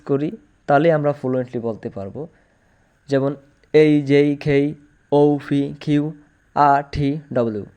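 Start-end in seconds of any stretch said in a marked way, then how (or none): 3.7-7.7 letters in quick groups, "এই, যেই" with i glides; pronunciation drill. Shown as a demonstration. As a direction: aspirate "খেই", "ফি" and "ঠি" in a run. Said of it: "এভাবে বারবার উচ্চারণ করলে".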